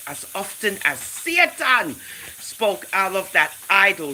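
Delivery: deliberate, emphatic scripture reading; read-aloud narration. A narrator's reading. Host reading the idol story to viewers, emphatic read-aloud. Reads an old text aloud.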